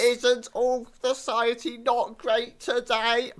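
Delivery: high, slow robot voice; a slow, droning machine. Retold or imitated. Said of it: "deadpan robot comedian".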